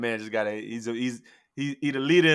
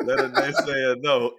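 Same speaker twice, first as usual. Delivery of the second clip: laughing catchphrase; 4 dB louder, slower than usual. Real, not acted.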